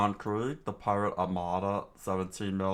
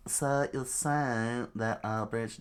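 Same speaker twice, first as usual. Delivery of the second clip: slow, drawn-out British try; rejected British try; 3 semitones higher, slower than usual. Shown as a demonstration. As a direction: draw out a posh British reading. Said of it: "nah, that's not good".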